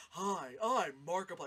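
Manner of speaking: exaggerated YouTuber intro, lightly imitated; mock booming host hello; Markiplier. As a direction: do a hammy streamer greeting. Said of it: "exaggerated, where he's like".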